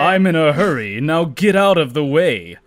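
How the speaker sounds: impatient prince in a hurry; hurried Ludwig. Acted. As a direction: shove past him in a rush. Ludwig rushing past Larry.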